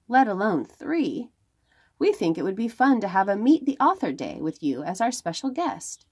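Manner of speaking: lively storybook read-aloud; reading to children. Acted. Librarian reads a picture book to the children, lively storytelling.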